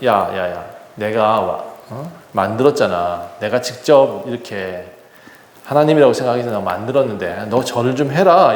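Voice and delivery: a hint of a king calling underlings over; king summoning. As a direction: call them over casually, pitched low. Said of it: "왕이 다시 부릅니다".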